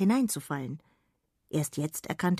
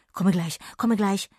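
louder, hurried fairy call; distant fairy; 2 semitones higher, 5 dB louder than usual. Acted. Sausewind answers from far off, hurried. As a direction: answer from afar while busy. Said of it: "tönte es aus der Ferne".

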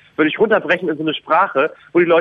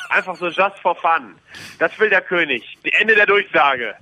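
royal proclamation. Pretend. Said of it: "Hier kommt der Wille des Königs".

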